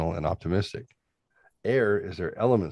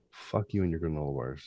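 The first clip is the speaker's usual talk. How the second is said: whispered curse; 2 semitones lower, 8 dB quieter than usual. Real, not acted. Angry aside muttered under breath.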